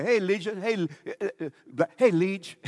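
calling out loud and high; mock calling out. Preacher mimics people calling out to Legion by name, loud and high. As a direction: hail him like a crowd across the street. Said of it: "they say".

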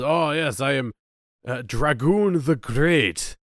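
slow, drawn-out mock Russian accent; weird Russian accent. Merlin in disguise announcing himself to Uther in mock Russian accent. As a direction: ham up a bad Russian accent on the name. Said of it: "puts on, like, a weird Russian accent".

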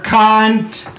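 "Cunt." blurted high and harder. Shown as a demonstration. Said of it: "Can I say it louder?".

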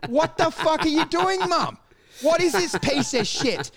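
mock outrage at mum. Kid berating mum.

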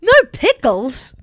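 mock outrage. Playing outraged restaurant customer.

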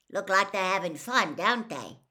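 delighted with his beasts; beaming proud gamekeeper; happily. Acted. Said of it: "Hagrid said happily".

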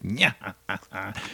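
quiet evil villain cackle; diabolical laugh. Acted. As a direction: laugh like a scheming alien villain. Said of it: "c'est avec le rire diabolique".

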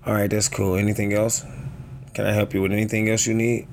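calm, politely unbothered comeback; understated, casual courtesy; regular tone. Acted. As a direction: offer help evenly, not getting smart. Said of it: "You just talking in a regular tone".

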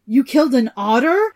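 high, loud startled outcry; cry of alarm. A narrator's reading. Old father crying out at news of the otter, loud and high. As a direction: blurt it out in shock. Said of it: "Hreidmar cried".

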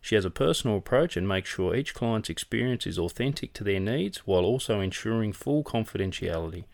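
smooth radio ad voice; ad read. Acted. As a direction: read it like a sponsor spot. Reads a sponsor ad.

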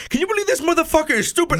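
high-pitched mock complaint; imitated off-air cursing. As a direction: imitate a radio host griping off mic.

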